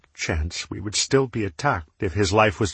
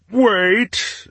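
wait pitched much higher, rising; 14 semitones higher, 5 dB louder than usual. Acted. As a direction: push the second wait up high. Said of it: "second take, much higher".

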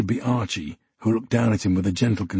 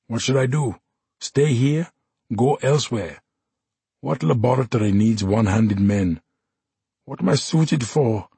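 lightly voiced drunk soldier, pleading; despairing Samad; 2 semitones higher than usual. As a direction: let the despair spill out in questions.

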